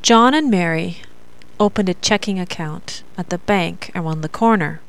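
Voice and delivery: phrase it in groups, ending low on "corner"; divided thought groups. Shown as a demonstration. Teacher's exercise example, pausing after "Mary" and dropping to "corner". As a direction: pause after "Mary", falling toward "corner". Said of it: "Divide the sentences into thought groups".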